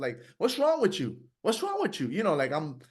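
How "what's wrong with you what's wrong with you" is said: high, harsh berating of himself; mean self-talk. Retold or imitated. A man imitating the cruel voice of his inner critic. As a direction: snap it at yourself, disgusted. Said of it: "very mean".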